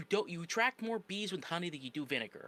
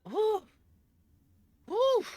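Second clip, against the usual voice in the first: high whoosh; 8 dB louder than usual. Real, not acted. Exhales after ranting at the clip.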